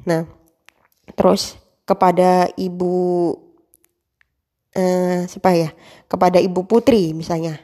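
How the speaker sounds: measured ceremonial emcee address, each greeting set apart; a lightly performed formal master of ceremonies; formal MC opening. Shown as a demonstration. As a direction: open the event like a school ceremony host. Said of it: "itu contohnya kalau ... jadi host".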